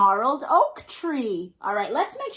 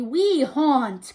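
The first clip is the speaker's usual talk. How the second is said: ghosties cry; 2 semitones higher, 6 dB louder than usual. Acted. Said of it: "cried the two".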